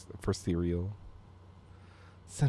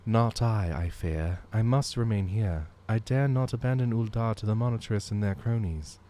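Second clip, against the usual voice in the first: solemn commander voice; 4 semitones higher than usual. Acted. Voicing marshal lines.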